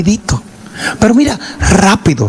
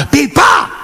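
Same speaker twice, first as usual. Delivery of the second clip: mock exclamation; 11 semitones higher than usual.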